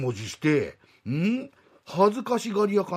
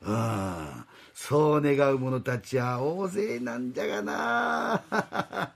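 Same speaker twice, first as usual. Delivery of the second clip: put-on old god voice. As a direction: speak as a doddering old god. God character continues.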